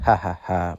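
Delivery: low, spelt-out villain chuckle; villain's laugh. Acted. Engine gloating over his plan, low mock laugh. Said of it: "Diesel laughed".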